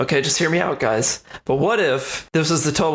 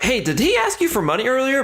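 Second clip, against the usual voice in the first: gossiping teammate; 9 semitones higher than usual. Retold or imitated.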